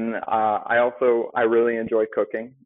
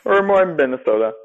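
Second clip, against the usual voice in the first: higher and louder, shows the real Minnesota sound; Minnesota accent; 7 semitones higher, 7 dB louder than usual. Shown as a demonstration. Guest corrects the host, Minnesota accent demo. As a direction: guest models the local Minnesota way of saying Minnesota. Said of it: "That's how you say it".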